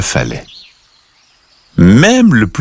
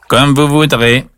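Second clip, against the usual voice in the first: put-on old duck; 6 semitones higher than usual. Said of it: "dit la vieille canne".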